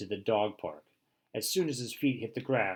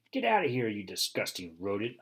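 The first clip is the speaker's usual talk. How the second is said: bark. Acted. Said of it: "I bark".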